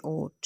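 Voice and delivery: ओट set apart on its own; isolated syllable. Shown as a demonstration. Teacher points out the last syllable, ओट said by itself. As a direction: say ओट as a separate final beat. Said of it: "उस तरह से बोलना one by one".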